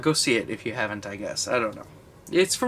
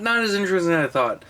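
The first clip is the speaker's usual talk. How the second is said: fast, a bit higher and slurred together; tipsy rushed slur; 5 semitones higher, faster than usual. Real, not acted. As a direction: blurt it out tipsy and quick. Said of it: "It's hard to enunciate because I am wasted".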